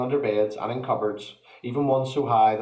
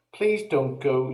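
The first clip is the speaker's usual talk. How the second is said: begging; 3 semitones higher, slower than usual. Acted. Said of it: "she begged quickly".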